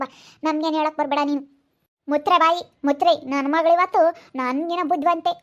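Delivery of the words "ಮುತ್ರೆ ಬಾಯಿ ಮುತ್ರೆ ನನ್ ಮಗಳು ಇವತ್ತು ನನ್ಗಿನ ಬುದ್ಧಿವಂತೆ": angry shout. Acted. Shouting in a quarrel.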